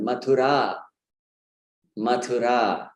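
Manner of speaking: Mathura as ma-thu-RAAA; short U, long stressed ending on Mathura; correct long final vowel. Shown as a demonstration. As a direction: stress and prolong the last ah of Mathura. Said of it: "Again, the same point".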